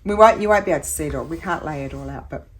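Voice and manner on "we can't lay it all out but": speaking through hiccups. Real, not acted. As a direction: talk while hiccuping. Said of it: "I'm hiccuping".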